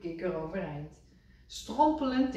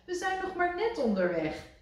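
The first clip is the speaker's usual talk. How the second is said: higher, louder grumbling friend; Rad's voice; 11 semitones higher, 6 dB louder than usual. A narrator's reading. Rad telling Kikker off, higher and louder. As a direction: Rad objecting too soon.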